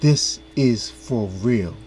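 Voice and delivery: slowly, every word weighted; slow solemn echo. Retold or imitated. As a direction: repeat his words slowly and gravely. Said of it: "he said it best".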